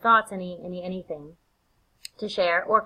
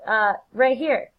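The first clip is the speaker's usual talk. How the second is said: high, casual correction; helpful Lennox; 6 semitones higher, 4 dB louder, slower than usual. Acted. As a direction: insist to a buddy, slowing on the last words. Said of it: "Lennox is like".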